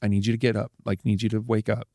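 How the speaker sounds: retold soft bedside pleading; soft, near-whispered plea. Husband urging his wife to wake up, softly pleading. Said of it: "I don't even know if I'm whispering it".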